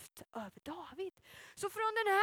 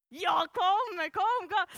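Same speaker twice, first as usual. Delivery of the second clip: normal talking voice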